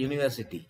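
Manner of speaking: university without the opening y-glide; wrong pronunciation. Shown as a demonstration. Teacher showing students what she did not say, university mispronounced with a bare vowel. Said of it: "Hear the pronunciation correctly".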